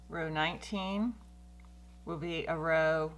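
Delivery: talking around a stitch marker between the teeth; words slightly blocked by something held in the teeth. Real, not acted. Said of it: "I put my stitch marker in my teeth".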